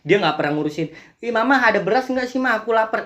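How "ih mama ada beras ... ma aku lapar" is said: lightly voiced child, pitched up; whiny hungry child. Child asking Mama for rice, lightly acted pleading.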